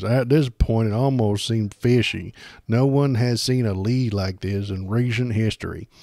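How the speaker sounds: a light impression of a pundit; lightly voiced pompous host; his voice. Streamer doing Steven Crowder's voice, lightly voiced and self-serious. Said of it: "let me do his voice".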